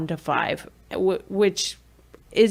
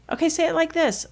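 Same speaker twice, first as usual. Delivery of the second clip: soft modelling voice; 4 semitones higher, 4 dB quieter, faster than usual. Shown as a demonstration.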